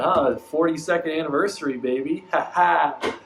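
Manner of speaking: smarmy toxic ex. Retold or imitated. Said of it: "they're like".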